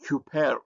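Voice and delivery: "hyper" opened with a sounded H, as "hyu-per". Shown as a demonstration. Teacher showing rough breathing to learners, "hyper" begun with H. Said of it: "so it has a H sound".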